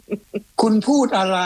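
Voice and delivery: slow, high voice like a phone assistant, rising at the end; mock Siri voice. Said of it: "สิริ".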